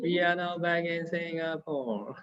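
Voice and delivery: slow Hong Kong English announcement accent. Shown as a demonstration. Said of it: "Let's speak in Hong Kong accent".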